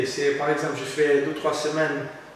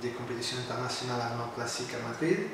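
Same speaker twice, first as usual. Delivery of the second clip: Portuguese accent in French; 2 semitones lower, 6 dB quieter than usual. Real, not acted. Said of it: "Ça s'entend à l'accent".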